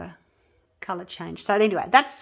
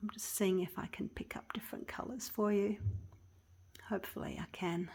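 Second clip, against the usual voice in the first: soft whisper; 11 dB quieter than usual. Real, not acted. Filming the piece close up.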